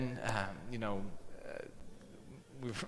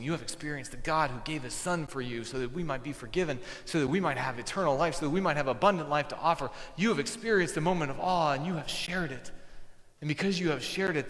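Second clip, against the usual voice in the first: building preaching; 3 semitones higher than usual. Acted. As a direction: preach it up to the peak. Sermon climax building.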